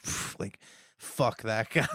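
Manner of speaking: unvoiced, near-whispered brush-off; dismissive mutter. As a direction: mutter it under your breath, dismissively. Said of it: "I'm like".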